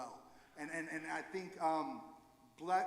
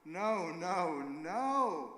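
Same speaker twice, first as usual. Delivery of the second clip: emphatic no; 7 dB louder, much slower than usual. Retold or imitated. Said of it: "I was like".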